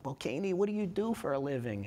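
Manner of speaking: put-on a lightly done Jewish mom accent. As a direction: ask it like a Jewish mother, accent on. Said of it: "that was my Jewish mom accent".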